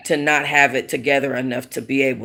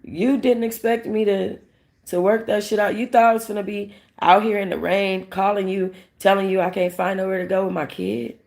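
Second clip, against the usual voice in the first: imitating the mother, slightly higher and aggrieved; mock hurt mother; 6 semitones higher than usual. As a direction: voice the mother's disbelief lightly. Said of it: "her reaction was almost like".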